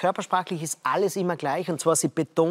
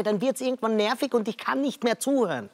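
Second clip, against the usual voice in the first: lightly raised pitch, showing a monotone high voice; 4 semitones higher than usual. Shown as a demonstration. Panelist demonstrating a voice that gets tiring, in a high voice. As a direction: keep it up in a higher register. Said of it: "wenn ich alles mit hoher Stimme sage".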